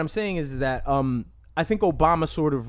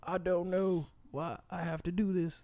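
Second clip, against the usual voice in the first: very slow, unhurried politician voice, words dragged out; 3 semitones higher, 10 dB quieter than usual. Taking a turn in a Bill Clinton impression battle: Bill Clinton impression. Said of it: "Bill Clinton battle".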